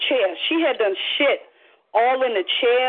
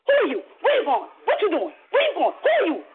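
higher-pitched rapid-fire questions; urgent challenge; 7 semitones higher than usual. Retold or imitated. Woman cornering the fleeing attacker, urgently challenging her. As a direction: fire off short, demanding questions.

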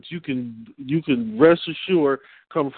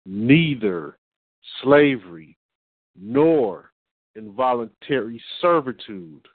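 slower reading, long pauses between words; 3 semitones lower than usual. Shown as a demonstration. Reading the amendment for listeners, slower and spaced out. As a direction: read it word by word, letting each term stand. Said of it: "I'm going to read it a little slower".

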